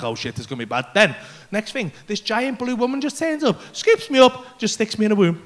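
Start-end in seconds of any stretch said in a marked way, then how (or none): 0.0-0.9 very low, hushed foreboding; dread. Retold or imitated. Tripper feeling anxiety rise, low hushed dread. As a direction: sink the voice as panic looms.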